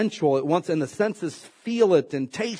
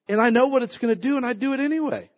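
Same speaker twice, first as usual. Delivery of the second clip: laughing; 7 semitones higher, faster than usual. Real, not acted.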